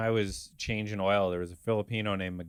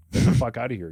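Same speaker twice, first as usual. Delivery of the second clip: mock angry yell; 7 dB louder, faster than usual. Yelling at a lazy coworker.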